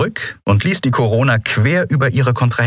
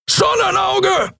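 drawn-out, much higher yell of "Sonnenauge"; bellowed warning; slower than usual. A narrator's reading. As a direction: shout it slowly across the bridge. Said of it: "brüllte Keru".

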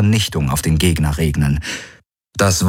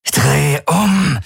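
high, forceful snapped order; harsh command; 8 semitones higher than usual. A narrator's reading. Jun seizes Galen by the collar, harsh high command. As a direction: grab him and bark the order. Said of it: "herrschte er ihn an".

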